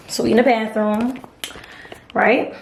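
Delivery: a little winded; breathing hard between words. Real, not acted. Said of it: "now me out of breath".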